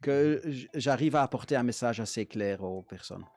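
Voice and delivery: Dutch speaker's French accent; French with a Flemish accent; foreign accent in french. Real, not acted. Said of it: "Je m'excuse, mon français, il n'est pas, euh, tellement bien".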